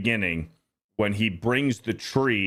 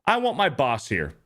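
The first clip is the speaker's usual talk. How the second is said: high, fast furious rant climbing higher; ranting Clark; 10 semitones higher than usual. Retold or imitated. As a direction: build the tirade up to a shriek. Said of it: "he goes on his rant".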